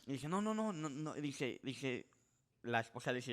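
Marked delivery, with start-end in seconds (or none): 0.3-1.1 rapid high no's from a panicked man; panicked refusal. Retold or imitated. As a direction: blurt the no's out high and frantic. (negación aguda y frenética)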